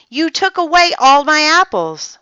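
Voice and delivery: put-on high, loud childish complaint; shout. A narrator's reading. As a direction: wail over lost apples. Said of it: "shouted Andy".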